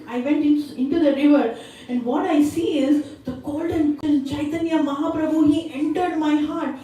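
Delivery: acted outpouring of longing, no real sobs; pleading, mock tearful. Son confiding in his mother, mildly acted tearful pleading. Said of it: "He starts crying".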